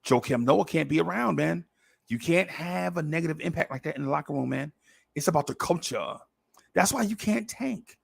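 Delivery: just a hint of Sim preaching culture; Sim Russell voice. Host lightly imitating fellow podcaster Sim Russell on tanking. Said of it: "That's me doing Sim".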